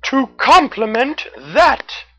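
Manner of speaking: high, bright cartoon raccoon. A narrator's reading. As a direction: pitch way up for a friendly raccoon. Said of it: "Red the Raccoon said".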